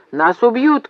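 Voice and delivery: high-pitched warning call; urgent acted cry. A narrator's reading. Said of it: "крикнул он".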